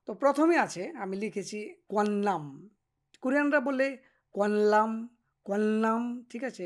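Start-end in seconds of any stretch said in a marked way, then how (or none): 3.2-6.3 কোয়ানলাম said the Korean way, with an l sound; কোয়ানলাম, pronounced the way Koreans say it; Korean pronunciation. Shown as a demonstration. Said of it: "এভাবে বলে". (কোরিয়ানদের মতো কোয়ানলাম উচ্চারণ)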